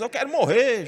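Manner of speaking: despairing wish. Retold or imitated. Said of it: "Aí Jonas".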